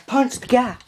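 high, urgent yell; kids yelling. Retold or imitated. Kids in the truck urging the driver on again, yelling high. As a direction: keep yelling like an excited kid. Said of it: "The kids start yelling".

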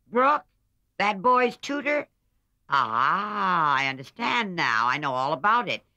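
put-on an old aunt shocked and crying out; loud, high scandalized old lady. A narrator's reading. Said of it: "cried Aunt March, looking scandalized".

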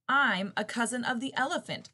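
high, squeaky little voice; squeaky mouse. Acted. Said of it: "squeaked the mouse".

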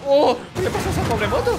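surprised. Real, not acted. Sudden shock at a wrecked bike.

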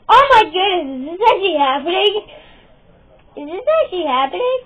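excited, rising question; amazed disbelief. Acted. Gamer reacting to the match, amazed disbelief. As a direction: gasp it out in quick astonishment.

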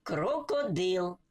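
slow, drawn-out "крокодил" in syllables. Shown as a demonstration. Teacher reading the whole word to learners, slowly syllable by syllable. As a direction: sound out "крокодил" slowly as kro-ko-dyl. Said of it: "як ми читали по складах".

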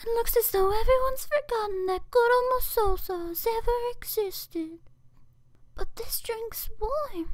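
put-on high cute anime girl. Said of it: "that was all my voice acting".

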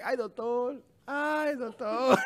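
slow, drawn-out mock moan of ay, doctor. Mocking the moans heard in the leaked video, drawn out. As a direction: ham up a lover's moan, slow and quiet.

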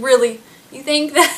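"Really?" said level and deadpan; flat, unimpressed retort; dry disbelief. Retold or imitated. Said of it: "I was like".

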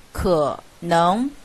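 可 low and short before a rising 能; 可能 with 可 held low, no rise; half-third tone on 可. Shown as a demonstration. Teacher models the tone change, 可 in low half-third tone. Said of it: "则前面变为半三声".

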